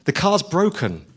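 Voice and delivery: a touch of a cross driver snapping back; retold anger. Taxi driver refusing passenger, mildly mock angry. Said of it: "got really angry and said".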